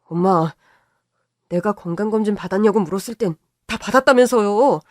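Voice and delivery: angry son. Acted. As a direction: scold her for hiding it. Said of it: "아들이 어찌나 화를 냈는지".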